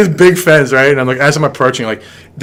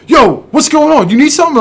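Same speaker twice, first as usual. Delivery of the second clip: higher, casual bro voice for the neighbor; imitating the neighbor; 12 semitones higher than usual. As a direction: play the big neighbor, laid-back and easy.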